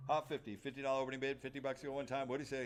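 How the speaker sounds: rapid auction bid chant; auctioneer. Acted. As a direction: rattle off the bids. Auctioneer calling bids.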